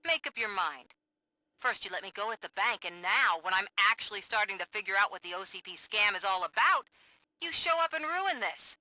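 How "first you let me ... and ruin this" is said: rising, louder accusation; angry outburst. Acted. Reporter angrily confronting the cop at her safe house. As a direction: turn on him with heated reproach.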